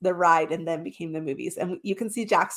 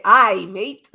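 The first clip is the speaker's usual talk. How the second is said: pirate voice; 8 dB louder than usual. Pretend. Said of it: "Or should I say".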